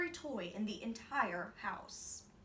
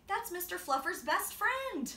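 higher, louder plea; boy pleading; 10 semitones higher, 7 dB louder than usual. A narrator's reading. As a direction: defend the toy like a child. Boy defends toy.

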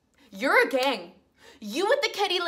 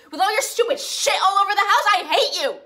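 angry outburst; 3 semitones higher, faster than usual. Acted. Acted quarrel with roommates.

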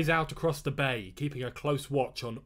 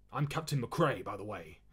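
croaking; 5 semitones lower, 5 dB quieter than usual. Acted. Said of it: "the fisherman croaked".

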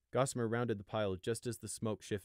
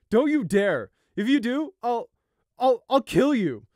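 loud, high threat breaking into stammers; choked sob; 16 dB louder, slower than usual. A narrator's reading. Brother begs sibling to stay, choked and sobbing. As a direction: shout through choking sobs. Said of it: "voice had become a choked sob by that point".

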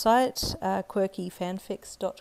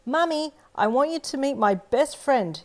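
put-on high, loud little girl calling down the hall; hollering child; 8 semitones higher, 7 dB louder than usual. Little girl calls her mum to meet her friend, loud high holler. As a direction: holler it out to mum far away. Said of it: "you hollered down the hallway".

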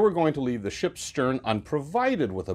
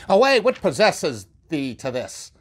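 huffy rebuke; 3 semitones higher, 4 dB louder than usual. Acted. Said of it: "He goes off in a huff".

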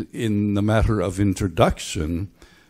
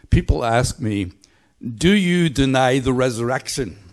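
imitated Belfast accent, raised and projected; 4 semitones higher, 4 dB louder than usual. Speaker quoting Belfast writer's talk, imitated Belfast accent. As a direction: put on a Belfast preacher's accent. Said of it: "there's the accent".

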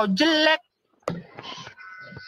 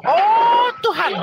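mock angry outburst; 4 semitones higher than usual. Outburst cursing.

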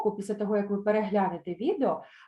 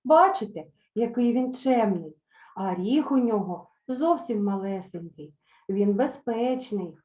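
pleading mother. Acted. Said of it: "попросила Нічка".

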